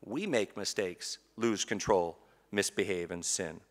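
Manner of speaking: hushed, confessional list. Real, not acted. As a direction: drop to a quiet admission. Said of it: "as adults".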